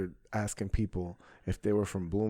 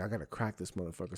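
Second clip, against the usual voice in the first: inner thought; 5 semitones lower, 11 dB quieter, much faster than usual. Retold or imitated. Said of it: "I was like".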